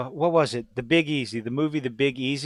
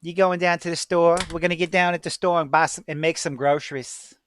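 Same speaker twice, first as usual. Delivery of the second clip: lightly imitated Chalmette local accent; a touch of Chalmette, New Orleans accent. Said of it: "you got people talking like this".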